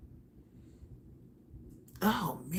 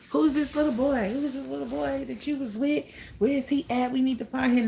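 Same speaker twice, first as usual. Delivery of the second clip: much higher, urgent questioning; frantic family; 8 semitones higher than usual. Retold or imitated. Family pressing the girl about the boy, much higher and urgent. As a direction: demand to know who the boy is.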